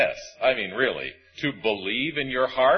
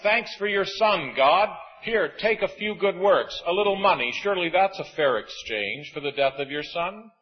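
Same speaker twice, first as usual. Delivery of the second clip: mock bargaining sinner; 4 semitones higher than usual. Preacher mimicking people at heaven's gate, mock bargaining. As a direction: hand God a cheap deal, mildly mocking. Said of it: "saying to God".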